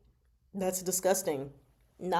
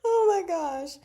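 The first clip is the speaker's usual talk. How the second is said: 1 excited oh my gosh; 11 semitones higher, 5 dB louder, slower than usual. Real, not acted. Delighted at a commenter's reference.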